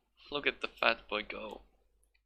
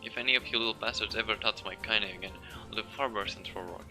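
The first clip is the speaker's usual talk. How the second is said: put-on old woman rage; 3 semitones higher than usual. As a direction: warn them off furiously. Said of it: "a voice thick with rage".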